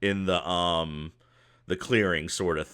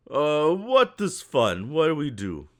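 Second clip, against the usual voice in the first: puzzled goblin; 7 semitones higher, 4 dB louder than usual. Acted. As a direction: wonder aloud like fun is a foreign idea. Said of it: "he looks around and goes".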